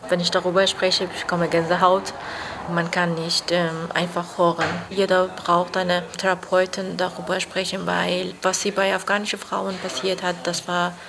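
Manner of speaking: real struggle for words; halting, with pauses before hard words; um Worte ringend. Real, not acted. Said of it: "muss sie um Worte ringen". (stockend, nach Worten ringend)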